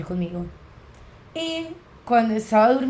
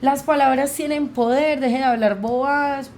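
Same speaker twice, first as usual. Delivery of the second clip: scolding; 5 semitones higher, 3 dB louder than usual. Retold or imitated. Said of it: "mi mamá me regañó".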